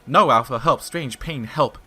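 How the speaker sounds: frantic pleading call; loud desperate plea. Acted. Pyrseed calling Alpha in panic, loud plea.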